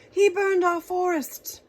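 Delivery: loud, high indignant king; indignant cry. Acted. King accusing the dragon of burning forest, loud indignant. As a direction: cry out the grievance. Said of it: "he cried".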